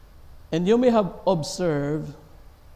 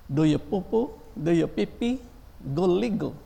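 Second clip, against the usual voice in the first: lightly voiced baby talk, higher; 5 semitones higher than usual. Parent cooing baby talk to a child, higher. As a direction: coo Do you poo-poo like to a baby. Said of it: "You explain what I said".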